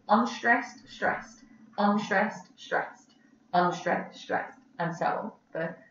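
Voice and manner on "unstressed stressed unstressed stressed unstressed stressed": "unstressed, stressed" in evenly paired beats; rhythm demo. Shown as a demonstration. Teacher showing students the iambic rhythm, rhythm demo. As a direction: recite "unstressed, stressed" as a repeating pattern, a slight gap after each pair. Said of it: "the rhythm is".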